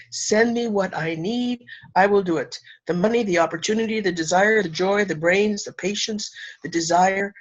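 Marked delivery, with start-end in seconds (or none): 0.1-2.6 a slow, hushed surrender; slow prayerful request. Shown as a demonstration. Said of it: "Just breathe and be willing and say".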